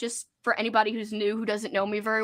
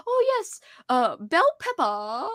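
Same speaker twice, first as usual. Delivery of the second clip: imitating mom's Cajun accent, slow; a light mock of a Cajun mom drawling it out; 5 semitones higher, slower than usual. Daughter imitating her Cajun mom's accent. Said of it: "my mom will be like".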